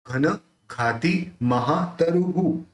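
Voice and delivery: slow महातरुहु ending in "hu"; हु उच्चारण. Shown as a demonstration. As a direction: voice the final visarga of महातरुहु as hu. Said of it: "उसका हु निकलेगा". (महातरुहु के अंत में हु, धीरे)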